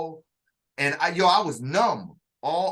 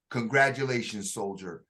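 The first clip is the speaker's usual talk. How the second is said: lower, softer formal congratulation; his other voice; 7 semitones lower, 3 dB quieter than usual. Retold or imitated. Drill sergeant shaking the recruit's hand, solemn. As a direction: say it low and solemn, like an officer. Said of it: "he used that other voice again".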